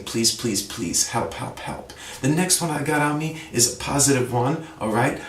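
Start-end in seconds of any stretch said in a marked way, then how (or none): 0.0-1.9 fading plea. Shown as a demonstration. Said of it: "instead of just saying".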